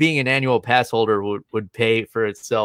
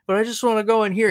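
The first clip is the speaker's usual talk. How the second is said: whiny plea; 9 semitones higher, faster than usual. Retold or imitated. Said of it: "it was just so innocent".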